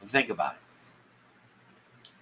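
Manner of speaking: slow, soft words through a yawn. Real, not acted. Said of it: "but I'm yawning".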